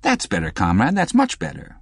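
lightly voiced approving instructress; encouraging. A narrator's reading. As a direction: praise that lifts high at the end. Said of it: "she added encouragingly".

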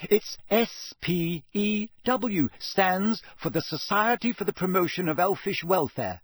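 high-pitched, impatient correction; exasperated and insistent. A narrator's reading. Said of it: "said Hermione impatiently".

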